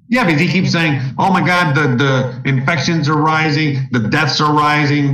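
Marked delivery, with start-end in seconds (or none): 1.2-5.1 imitating a commenter's alarmism in slow mock panic. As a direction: parody a hysterical doom-monger.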